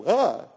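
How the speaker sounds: short imitated "uh" of shock; mock shocked reaction; shocked gasp. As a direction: let out a jolted little grunt. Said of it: "just made you go".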